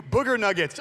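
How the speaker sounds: put-on high, loud kid's interjection; yelled interruption. Kid yelling into mom's text from the back seat, loud. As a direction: blurt it loudly over mom's dictation. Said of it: "whatever we yelled".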